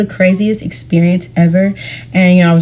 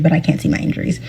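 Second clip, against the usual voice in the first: breathy whispered aside; hushed aside; 6 dB quieter, faster than usual. Retold or imitated. Crash victim telling viewers she couldn't see her injuries, whispered. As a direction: drop to a whisper, almost to yourself.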